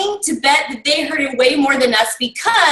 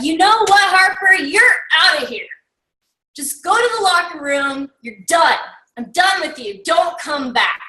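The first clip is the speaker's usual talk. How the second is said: raised, higher yelling coach voice; angry coach; 4 semitones higher than usual. Retold or imitated. Coach yelling at his player on the field, angry. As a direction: bark it like a furious coach throwing him out. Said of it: "the coach just got so pissed off".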